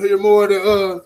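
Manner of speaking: rough, loud gravelly voice. Pretend. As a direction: push a raspy smoker's growl. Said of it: "the gravelly voice".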